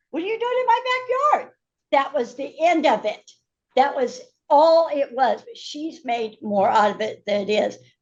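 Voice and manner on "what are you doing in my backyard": mock shrill shout, very high and rushed. Retelling how they yelled at a man in the backyard: retelling own yell. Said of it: "I yelled out".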